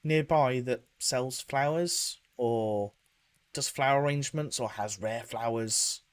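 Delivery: Val asking the vendor about flowers. Acted. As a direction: ask tentatively, pitch lifted. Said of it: "It's just like".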